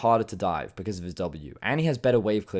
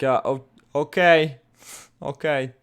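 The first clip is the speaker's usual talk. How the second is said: slow, higher mock Swedish accent, hesitant; drawn-out unsure okay in a Swedish accent; 5 semitones higher, 7 dB louder, slower than usual. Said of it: "That was my Swedish accent".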